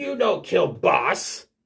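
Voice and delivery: slow, growling, snarling goblin voice. Voicing a goblin as it attacks the party: snarling goblin.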